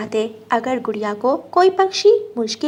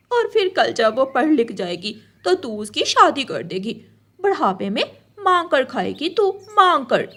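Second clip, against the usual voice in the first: taunting crow. Acted. Gauri crow sneers that Rano will beg in old age. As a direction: jeer at the mother sparrow.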